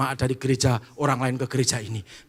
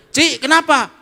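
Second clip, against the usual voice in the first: concerned greeting; 13 semitones higher, 13 dB louder than usual. Acted. Churchgoers greeting each other.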